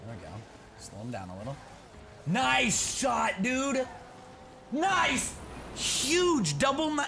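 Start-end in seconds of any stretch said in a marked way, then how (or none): 2.3-7.0 high, loud shouted praise; excited cheer. Real, not acted. Gamer cheering his teammate's shot, shouted praise. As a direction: yell it out for your teammate.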